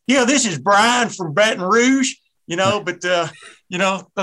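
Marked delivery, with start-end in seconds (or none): 0.1-2.1 slow, higher put-on radio caller; exaggerated slow caller greeting; caller character. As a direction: draw it out like a phone-in fan introducing himself. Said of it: "I was gonna come on here and I go".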